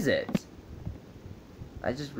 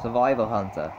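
lightly put-on show host accent, raised; survival hunter character; 3 semitones higher, 5 dB louder than usual. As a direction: announce it in a slightly affected voice. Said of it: "I'm not the survival hunter".

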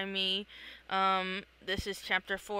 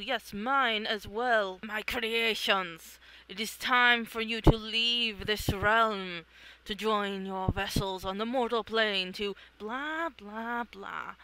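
slow, lordly, ceremonial voice; solemn grand being. Acted. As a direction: speak like an ancient ruler of a realm. Grand dream being speaks.

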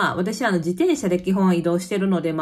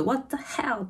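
mock angry retort; 5 semitones higher, 6 dB quieter, much slower than usual. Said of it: "英語でまず、".

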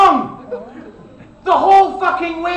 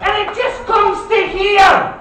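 exasperated shout; 5 semitones higher, 4 dB louder, much slower than usual. Real, not acted. Ranting about makeup line.

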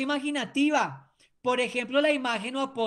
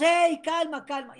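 high call that fades at the end; shout to the team; 6 semitones higher than usual. Shown as a demonstration. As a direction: yell to settle an overexcited team. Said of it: "usted les grita a todos".

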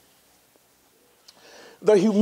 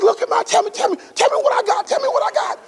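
higher, laughing brag to a teammate; playful teasing; 10 semitones higher, faster than usual. Retold or imitated. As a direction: show off playfully, pushing him to guess. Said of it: "This is the comedian in him".

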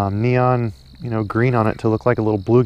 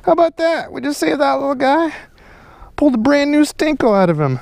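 high, excited and amazed; high amazed excitement; 13 semitones higher than usual. Real, not acted. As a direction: sound thrilled by the find. Amazed at pulled stick bait.

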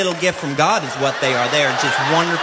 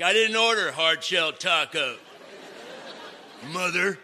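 put-on whiny kid; 7 dB quieter than usual. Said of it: "one of my sons starts complaining".

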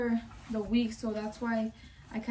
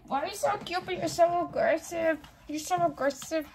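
pet talk; 5 semitones higher than usual. Real, not acted. Talking to her little pet, high cooing baby voice. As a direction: gush over the little animal in a high sing-song.

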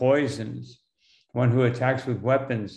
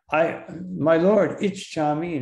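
slightly raised, emphatic quote, drawn out; commanding; 4 semitones higher than usual. Acted. Arjuna addresses his Lord Krishna, mildly commanding. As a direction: lightly act out a disciple commanding his Lord. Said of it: "he's commanding Krishna".

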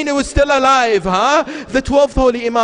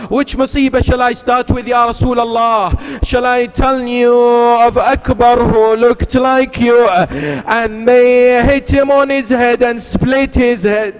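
a hint of Zainab's grief, slowing on Akbar; Zainab's grieving plea. Zainab asks the Prophet where to begin, mournful plea.

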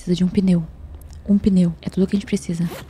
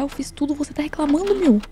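indignant; 8 semitones higher than usual. Real, not acted. Arguing with teammate.

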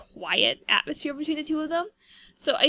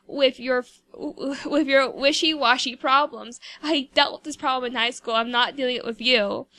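mock telling off. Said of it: "she's just like".

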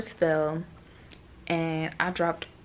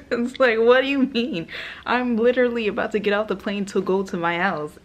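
exasperated; 4 semitones higher, 6 dB louder than usual. Real, not acted. Outraged at surprise extra trip.

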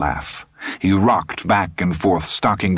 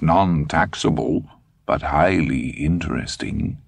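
put-on old German man; 4 semitones higher than usual. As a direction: savor every word, old man. Dussander explains calmly.

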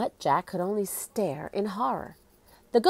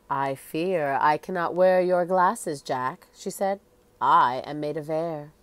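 lightly voiced ghostly queen, solemn; hollow echoing voice; 3 semitones lower than usual. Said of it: "She spoke in a hollow, echoing voice".

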